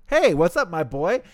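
a touch of a chummy buddy voice; casual greeting. Acted. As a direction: toss off a friendly hey. Hisagi casually greeting Kiraku.

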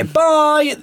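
high, loud singsong bye; high-pitched showy goodbye; bright goodbye. Retold or imitated. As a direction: call out a cheery farewell. Acting his end-of-session goodbye.

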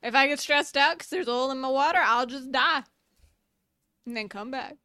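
a hint of a carefree southern accent. The immortal jellyfish shrugging off stress, in a mild southern accent. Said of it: "this jellyfish is a very southern accent".

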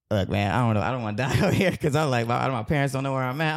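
mildly panicked, pitch climbing as it goes; retold scared pleading. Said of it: "So I'm scared".

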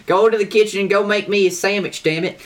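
high, loud mock macho bark; mock chauvinist. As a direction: ham up a sexist boss. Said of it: "making fun of misogynistic people".

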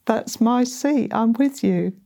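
retold loud voice. Jesus claiming the seat at the restaurant table, in a mild retold loud call. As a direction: replay a voice loudly claiming its seat, lightly. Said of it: "saying to me loudly".

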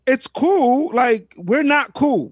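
lightly voiced rival brushing him off; playing a rapper, cold dismissal. Voicing the rapper rejecting truce.

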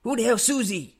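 high, loud incredulous mock reply; baffled retort. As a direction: sneer it back in disbelief. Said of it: "he's like".

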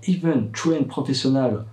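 English with a French accent. Real, not acted. Father quoting medical studies, English with a French accent. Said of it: "désolé pour mon accent anglais".

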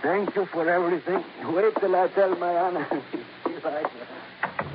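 chuckling, relieved and grateful; laughing with relief; happy chuckling. Acted. Steve pleased, laughing with relief.

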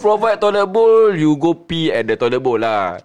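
shouting in anger; angry. Real, not acted. Ranting at people who bully others.

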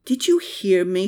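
exasperated whispered question; whispered, fed-up groan. A narrator's reading. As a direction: hiss it out in frustration. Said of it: "she groaned".

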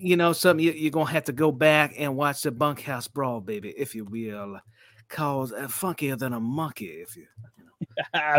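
put-on lightly doing the old wrestler's promo voice; mild Dusty Rhodes impression. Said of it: "your Dusty Rhodes is so much better than mine".

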